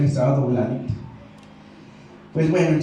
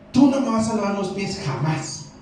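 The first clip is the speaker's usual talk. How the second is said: decided refusal; 6 semitones higher than usual. Retold or imitated. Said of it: "En una forma muy así de, ya decidió".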